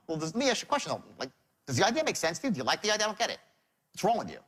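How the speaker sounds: mildly exasperated salesman challenging a refusal; baffled pushiness. Shown as a demonstration. Salesman questions a prospect who said no, baffled and pushy. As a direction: press the question as if they're being dense. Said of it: "Another tonality. That's also wrong".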